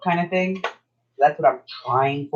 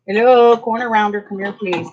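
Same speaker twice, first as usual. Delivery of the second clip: playful call; 6 semitones higher, 5 dB louder than usual. Real, not acted. Calling playfully to her tool.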